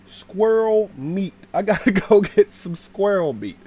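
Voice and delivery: loud, high comic threat; hammed-up hunter's resolve; mock menace. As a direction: announce the hunt with relish, laughing a little. Mock threat to hunt them.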